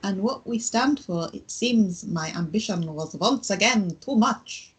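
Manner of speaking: put-on German accent. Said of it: "You sound like Count Von Count".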